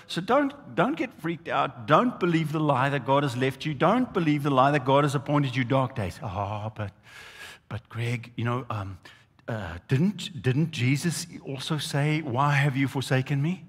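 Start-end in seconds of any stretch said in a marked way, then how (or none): 6.2-13.6 doubting listener. Retold or imitated. Preacher voicing a hesitant churchgoer's objection, softly. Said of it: "voicing a doubting listener".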